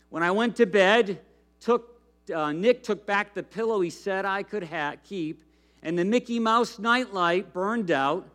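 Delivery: lively storybook reading to a congregation; animated read-aloud of a kids' story; reading a children's book. Acted. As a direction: read it like a picture book to kids.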